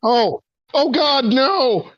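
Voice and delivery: high, frantic cry; panicked. Acted. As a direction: shriek of alarm at her own tentacles. Julie panics at flailing tentacles.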